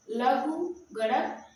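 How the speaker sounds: लघुगणक said very slowly, syllable by syllable; teacher carefully spelling out लघुगणक; slow enunciation. Shown as a demonstration. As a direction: draw out लघुगणक so students catch it. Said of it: "B का लघुगुणक क्या होगा".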